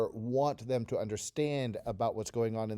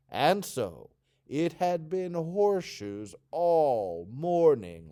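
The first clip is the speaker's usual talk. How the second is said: bored drawn-out start, groaned ached, rising louder; expressive read-along; 4 semitones higher, 7 dB louder, slower than usual. Shown as a demonstration. Teacher reading the whole passage aloud for students. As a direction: read it with each feeling voiced. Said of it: "So say this whole thing with me".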